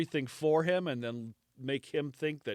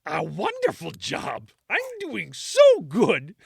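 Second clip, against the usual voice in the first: mock smug Nero; 5 semitones higher, 7 dB louder than usual. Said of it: "So he's like".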